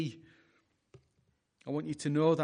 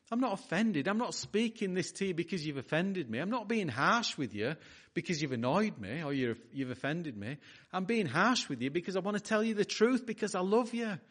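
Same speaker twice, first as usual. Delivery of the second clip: earnest, higher-pitched plea; pleading Paul; 5 semitones higher than usual. Acted. Preacher voices the apostle explaining harsh words out of love, pleading. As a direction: plead with them, pitch lifted in mild urgency. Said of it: "he was pleading with them".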